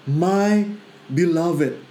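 very slow, tender declaration; deliberate, loving pronouncement; God speaking. Retold or imitated. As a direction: stretch out each word with weight. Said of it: "tapi Tuhan bilang".

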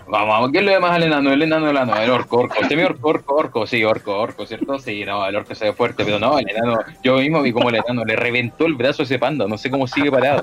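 fast barker calling for bets; shady bookie hawking bets. Acted. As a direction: hustle the crowd for wagers. (corredor de apuestas pregonando)

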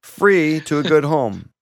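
loud mock mum post reading; reading a quote. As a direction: read the post aloud with gusto.

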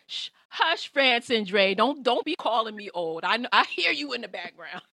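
loud playful scolding; mock scolding. Real, not acted. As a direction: hush them loudly in jest. Host scolding guests in jest.

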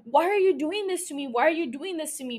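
imitating a frantic plea, pitch jumping high at first then settling; mock freaking out. Miranda freaking out at the sheriff, mock frantic plea. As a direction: play her panic, a lightly acted frantic question said twice. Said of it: "Miranda freaks out".

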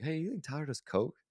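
high-pitched imitation of someone asking; imitated nosy coworker. Coworker asking about a colleague, high imitated voice. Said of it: "like, asked her".

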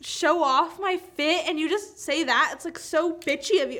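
imitating a wounded, indignant friend; mock offended. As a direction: play up the hurt protest. Acting out friend's offended reply.

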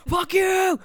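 high, loud yappy little dog voice; be a tiny furious chihuahua; angry chihuahua. Retold or imitated. The chihuahua cursing at Cage, high loud dog voice. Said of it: "imagine that, but with a chihuahua".

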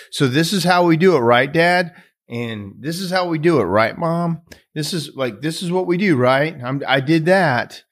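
put-on high-pitched kid seeking approval; eager little boy. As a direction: imitate a child checking in with parents. Boy seeks parents' approval.

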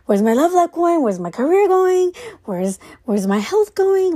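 spiral into retold anxious questions; mock panic. Recalling her old late-night panic about life, mock frantic. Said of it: "I'd go into, like, this panic of".

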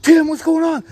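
high, loud, urgent call; alarmed shout. Retold or imitated. Panicked call to screaming roommate.

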